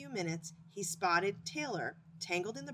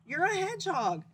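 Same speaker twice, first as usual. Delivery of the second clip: emphatic reassurance; 11 semitones higher, 7 dB louder than usual. Acted. Skunk comforts friend.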